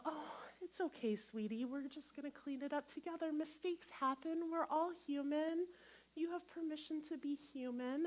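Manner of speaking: put-on soft, soothing parent to a child; comforting a child who spilled something, softly; tender comforting. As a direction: hush it like calming a toddler. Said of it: "you go".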